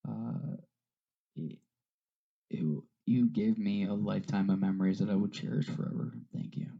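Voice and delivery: softening, voice catching as he thanks her; holding back tears, quiet and halting; choked up. Real, not acted. Son thanking his late mother, choked up and quiet. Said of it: "I'm choked up with all this".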